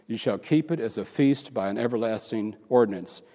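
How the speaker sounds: lightly solemn scripture read. Acted. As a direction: read the verse with solemn weight. Reads scripture aloud.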